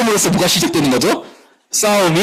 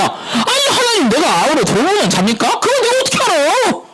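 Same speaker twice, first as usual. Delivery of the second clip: much higher, cheeky and indignant; defiant retort; 13 semitones higher than usual. Acted. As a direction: toss it back at God like a sulky brat. Cain answering God defiantly.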